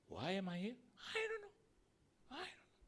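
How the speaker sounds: high, bewildered little voice; confused newcomer. Acted. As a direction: play a lost soul who knows nothing. Thief answers the angel. (suara tinggi bingung orang baru)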